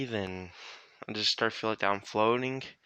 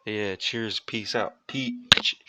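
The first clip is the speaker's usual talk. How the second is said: loose, stoned speech; 5 dB louder, much slower than usual. Real, not acted. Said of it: "I'm very, very stoned right now".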